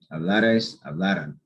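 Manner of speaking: "Hablares, hablaran" with weight on "la"; stress before the R. Shown as a demonstration. Teacher models the A before the R, "Hablares, hablaran" stressed on "la". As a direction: lean on the middle syllable in "Hablares, hablaran". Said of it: "it's the A before the R".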